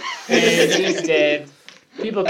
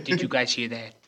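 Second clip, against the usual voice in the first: softer, lightly spooky pastor voice; a touch of demonic pastor; 6 semitones lower, 7 dB quieter than usual. Retold or imitated. Mocking the pastor blaming a noise, mildly demonic. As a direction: play the pastor, a little demonic.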